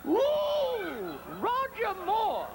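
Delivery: high, stretched swooning cry of Roger Moore; mock screaming neighbor. Neighbor through thin walls, swooning mock scream. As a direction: swoon the name out like a lovesick woman. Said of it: "Just like that".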